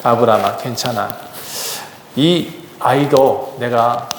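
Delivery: slow, gentle divine voice; reassuring God. Retold or imitated. God calming a worried Abraham, slow and gentle. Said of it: "하나님이 말씀하세요".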